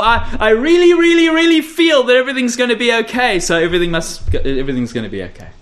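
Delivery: hammed-up gushing, fading to a mumble; mocking gushy believer. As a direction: parody the breathless feeler.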